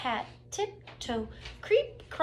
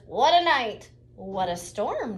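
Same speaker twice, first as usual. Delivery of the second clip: twittering wren; 5 dB louder than usual. Acted. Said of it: "twitters wren".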